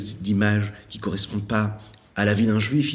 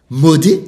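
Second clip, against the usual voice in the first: Modé stretched, loud and rising; drawn-out Modé; 7 semitones higher, 13 dB louder than usual. Retold or imitated. Old man savours the first word of the prayer, stretched. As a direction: lean into Modé and let it rise. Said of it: "je commence".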